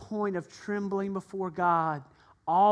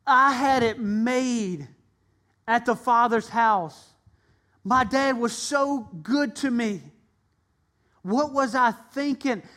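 a touch louder, earnest self-reproach; son's realization; 2 semitones higher, 3 dB louder than usual. Acted. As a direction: son coming to his senses, pleading. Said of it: "and he realized".

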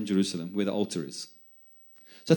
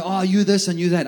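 mocking whine; 7 semitones higher, 5 dB louder than usual. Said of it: "And the guy".

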